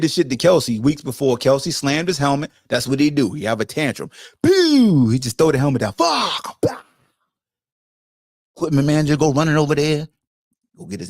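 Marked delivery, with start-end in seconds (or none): 4.4-5.1 mock tantrum yell. Imitating Kelce tantrum. 5.9-6.8 mock tantrum shout. Kelce slamming helmet.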